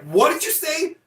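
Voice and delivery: high, indignant mock challenge; a touch of an indignant neighbour; neighbour's retort. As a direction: throw the question back at him, offended. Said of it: "And he's like".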